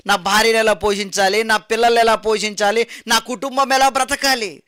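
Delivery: desperate pleading. Acted. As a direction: beg to be let into the exam. Late candidate pleads for his family. (కుటుంబం కోసం వేడుకునే నిరాశ స్వరం)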